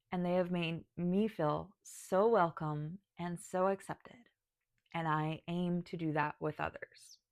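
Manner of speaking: holding back tears, slowing down; choking up. Real, not acted. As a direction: voice thick with tears. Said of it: "I'm choking up right now".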